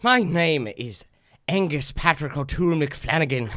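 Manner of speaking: Irish guest voice. Acted. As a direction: play the jolly Irishman. Irish guest character introduces himself.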